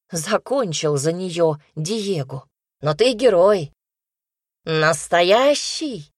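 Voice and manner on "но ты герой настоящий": louder excited cheer, Настоящий drawn out slowly; exclamation. A narrator's reading. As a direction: proudly hail him as a hero. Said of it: "воскликнул Марчелло". (громкий восторженный возглас)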